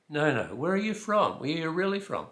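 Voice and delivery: high, loud, pressing questioning; hammed-up disbelieving local; mock insistence. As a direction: push for the real answer, exaggerated. Locals press him about his origin.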